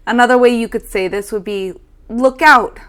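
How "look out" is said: louder, urgent call; a loud sudden warning; warning shout. Shown as a demonstration. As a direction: shout it to stop someone in time. Warning about a coming car.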